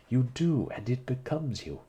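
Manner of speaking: smiling retort, light; teasing retort. Acted. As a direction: tease him back. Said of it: "she retorted with a faint smile".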